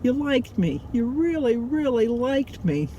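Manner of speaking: lightly acted, drawn-out movie quote; a mild film-star impression, slowing on the last words; Sally Field. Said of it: "my best Sally Field impression".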